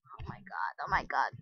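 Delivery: hushed, low whispered exclamation; excited whisper. Real, not acted. Player amazed by the items, excited whisper. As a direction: whisper it to yourself in disbelief.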